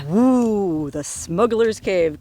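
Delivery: slow, savouring "the Smuggler's Cave" like an adventure-story title; playfully dramatic, relishing the name; mock mysterious.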